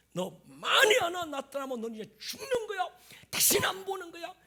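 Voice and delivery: high, forceful mock threatening; acted threat. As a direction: threaten them with heavy emphasis. Acts out threatening Peter.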